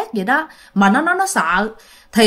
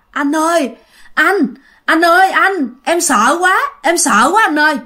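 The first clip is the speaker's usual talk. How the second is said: acted scared plea, pitched up; frightened, near tears; 6 semitones higher, 4 dB louder than usual. Frightened younger friend calling his older friend at night, near tears. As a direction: plead higher and louder, as if close to crying. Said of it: "giọng nó run run mà nó muốn khóc".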